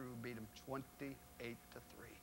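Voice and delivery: slow hushed whisper; savouring the upset win; whispered punchline. Real, not acted. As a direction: drop to a whisper for the score. Punchline of big win story.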